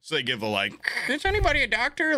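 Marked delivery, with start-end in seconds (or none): 1.1-2.2 high, fast put-on announcer; cabin announcement. Crew asks first class for a doctor, cabin announcement. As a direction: imitate a stewardess on the intercom, pitched up. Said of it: "they have to give an announcement".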